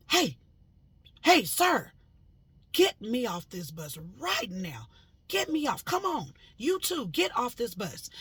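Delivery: urgent high yells to wake the bus; shouting. Retold or imitated. Yelling at the man on the bus to get off. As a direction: call out loud and high, pleading.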